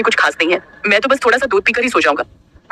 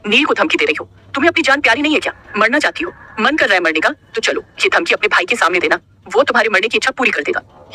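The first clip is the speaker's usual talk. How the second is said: angry; 3 semitones higher than usual. Acted. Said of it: "नील ने गुस्से में कहा".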